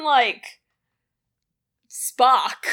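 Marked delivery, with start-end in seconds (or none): 1.9-2.7 breathless whisper of the name. Pretend. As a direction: hush it like a secret.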